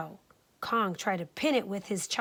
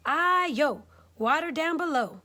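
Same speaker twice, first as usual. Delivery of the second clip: higher teasing cake cry; 6 semitones higher than usual. Acted. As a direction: taunt as you roll away. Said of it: "It cried".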